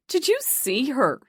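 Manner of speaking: a snooty Dublin 4 woman sneering; affected Dublin 4 accent. A narrator's reading. Gossiping woman in a toilet mocking, affected Dublin 4 accent. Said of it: "in a Dublin four affected accent".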